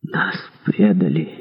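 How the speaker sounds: low, slow, hushed words; quiet. A narrator's reading. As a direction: say it softly and heavily slow. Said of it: "тихо сказал король".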